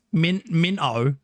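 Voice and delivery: Minto stretched slowly, rising; slow careful Minto; Minto pronunciation. Shown as a demonstration. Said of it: "a suburb in Sydney called".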